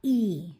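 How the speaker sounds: ई held as a long clear vowel; ई sounded out for the class; vowel demo. Shown as a demonstration. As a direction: model ई loudly and long. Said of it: "इसका उच्चारण क्या होता है".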